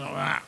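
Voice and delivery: put-on low groan of a possessed girl; imitated possessed groan. Girl reacting to Jesus' name in prayer, imitated low groan. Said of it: "empezó a hablar como un hombre".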